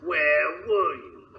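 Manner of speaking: pompous reading of the letter; reading a letter aloud. Acted. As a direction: read the note out grandly. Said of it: "how did that sound".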